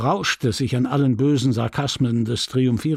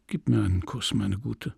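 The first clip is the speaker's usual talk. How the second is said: tender; 3 semitones lower, 5 dB quieter than usual. Acted. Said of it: "Übermannt von jäher Zärtlichkeit und Entmutigung".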